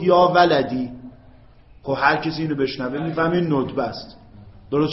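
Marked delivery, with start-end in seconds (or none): 0.0-0.9 نالان. Shown as a demonstration. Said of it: "با حالت نالان گفت".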